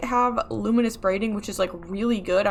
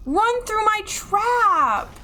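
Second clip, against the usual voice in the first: high, drawn-out pleading yell; frustrated yell; 11 semitones higher, much slower than usual. Real, not acted. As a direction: wail the order slowly, pitched way up. Yelling at enemy to spring trap.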